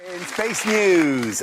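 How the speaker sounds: slow, grand news intro; slow, weighty space-news announcement; dramatic announcer. Acted. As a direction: savour each word like a headline. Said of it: "Oh, I love saying this".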